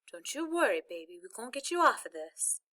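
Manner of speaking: tender, anxious Southern voice; shaky Southern accent. A narrator's reading. Mother reassuring her stuck son, shaky Southern accent. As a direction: soothe with a shaky Southern lilt. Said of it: "her voice was so shaky and southern".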